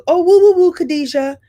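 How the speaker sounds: high, loud, sing-song greeting; as Sinclair, greeting Khadijah on set with a woo; Sinclair's woo. Retold or imitated. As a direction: call out the woo with big affection. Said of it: "ad-libbed that on the set".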